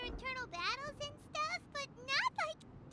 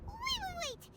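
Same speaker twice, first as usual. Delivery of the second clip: alarmed; 5 semitones higher than usual. Acted. Paimon alarmed by the Shogun's challenge.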